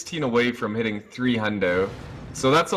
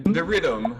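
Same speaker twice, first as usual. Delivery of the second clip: Jamaican accent; 3 semitones higher than usual. Shown as a demonstration. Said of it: "That was, like, Jamaican".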